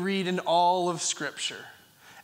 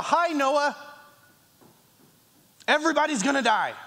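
mock casual announcement; 4 semitones higher, faster than usual. Mock casual God greeting.

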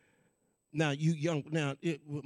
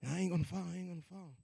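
muttered to himself; 13 dB quieter, much faster than usual. Retold or imitated. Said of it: "That's exactly what I kept saying".

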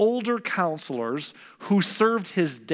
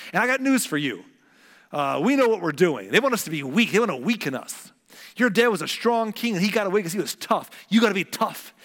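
put-on cocky young buddies; 4 semitones higher than usual. Buddies urging the young king to get tough, cocky and pushy. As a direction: egg him on like a swaggering friend.

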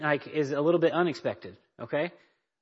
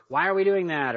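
higher, pushed questioning protest; lightly acted indignant child; mock child complaint; 4 semitones higher, 4 dB louder than usual. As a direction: imitate a kid objecting. Mimics a child's blow-up.

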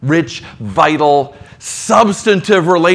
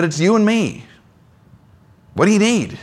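friend's sincere offer; 4 semitones higher than usual. Retold or imitated. Friend assuring the pastor he'll help, sincerely warm. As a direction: say it like a loyal friend leaning in.

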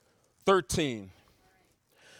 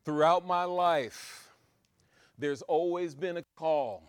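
ordinary talk, nothing marked

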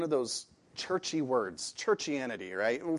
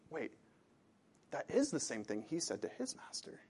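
ordinary delivery

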